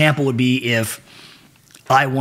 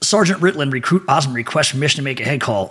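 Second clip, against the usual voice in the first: recruit at attention; 2 semitones higher than usual. Retold or imitated. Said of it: "and you're screaming".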